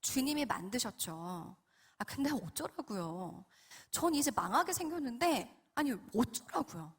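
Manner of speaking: petulant, half-hearted defiance; sulky back talk. Retold or imitated. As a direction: answer back in a mild acted sulk. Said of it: "제가 진짜 이렇게 막 대들었어요".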